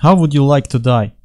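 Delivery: put-on light Russian-accented movie villain; slightly hammed-up Russian accent. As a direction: ask it with a mock Russian accent. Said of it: "with a Russian accent".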